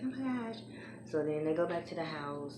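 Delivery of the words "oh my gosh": high-pitched retold excitement; gushing imitation, pitched up; excited. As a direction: imitate an excited girl's exclamation. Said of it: "so excited".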